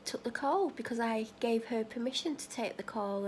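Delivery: ordinary delivery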